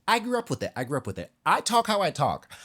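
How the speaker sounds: a lightly camp Billy Porter voice; imitating Billy Porter. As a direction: lift the voice up to play Porter. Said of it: "Porter is essentially saying".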